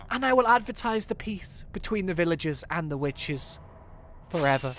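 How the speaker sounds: mock-solemn public address; formal eulogy speech. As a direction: address the mourners with measured pauses.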